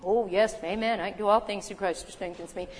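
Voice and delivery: mock rote church recital; churchy cliche. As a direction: toss it off like an empty slogan. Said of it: "That's how we talk in church".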